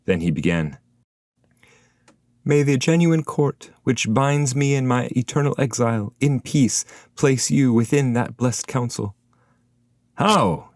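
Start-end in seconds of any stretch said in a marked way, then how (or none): 2.5-9.2 higher voice of a spirit giving a blessing; a poet's shade offering his blessing; voiced spirit. A narrator's reading. 10.2-10.7 sudden higher question; a quick start of surprise; startled how. A narrator's reading.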